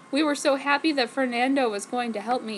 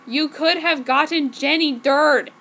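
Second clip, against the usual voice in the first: mock roar; 3 semitones higher, 5 dB louder than usual. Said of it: "Ward roared sexily, but powerfully".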